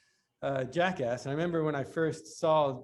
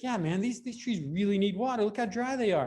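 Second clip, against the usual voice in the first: mock earnest insistence; 6 semitones higher than usual. Knoxville insisting, voiced.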